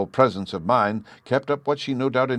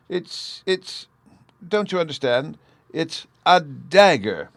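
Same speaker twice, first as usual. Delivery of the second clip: little voice; 9 semitones higher, 3 dB louder, slower than usual. Acted. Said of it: "spoke in the littlest of little voices".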